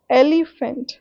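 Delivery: एलिफेंट with the opening ए stressed; dactyl stress. Shown as a demonstration. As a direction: show the strong start of एलिफेंट, the rest unstressed. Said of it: "जिसमें starting में stressed होते हैं". (एलिफेंट के पहले अक्षर पर ज़ोर)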